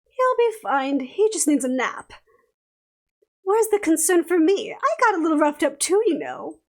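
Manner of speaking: lightly voiced haughty lady; sassy fairy voice. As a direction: tease them into making amends. Esme's character voice.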